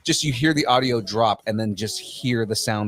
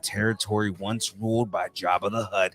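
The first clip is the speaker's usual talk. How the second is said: movie guy voice; 2 semitones lower than usual. Pretend. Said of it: "in the movie guy voice".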